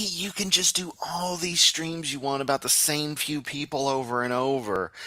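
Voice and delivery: unvoiced whispered aside. Real, not acted. Streamer confiding to chat about the preacher, whispered. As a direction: whisper it like a secret. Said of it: "whispered aside".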